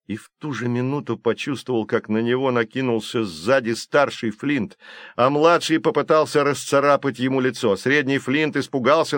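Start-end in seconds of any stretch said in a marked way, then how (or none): none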